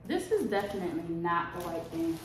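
talking around retainers; slight lisp from retainers; wearing a retainer. Real, not acted. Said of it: "I got my retainers in".

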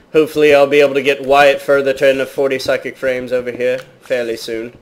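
pseudo-British accent, half put on; bad British accent. Gamer chatting to viewers about his series, bad British accent. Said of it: "speaking in that pseudo bad British accent".

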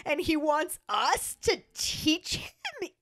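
dumbfounded, pitch climbing high; flabbergasted voice. Retold or imitated. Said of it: "That's my flabbergasted voice".

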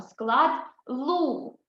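склад "лу" said slowly and clearly; syllable lu. Shown as a demonstration. Teacher models the syllable "лу" for first graders, clear and drawn out. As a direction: sound out "лу" for the children. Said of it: "Наступний склад пишемо".

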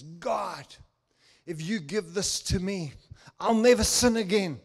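rising to a loud vow on never; desperate churchgoer's vow; pleading prayer. Retold or imitated. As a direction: quote the kid's loud promise to God. Praying kid quoted at church.

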